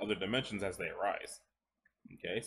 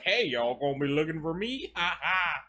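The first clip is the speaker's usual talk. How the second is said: lightly voiced cheeky greeter with a laugh; jovial council member; 6 semitones higher, 4 dB louder than usual. A council member rolls up on the narrator, lightly voiced and cheery. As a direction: pop in cheerfully, then laugh. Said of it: "just kinda rolled up like".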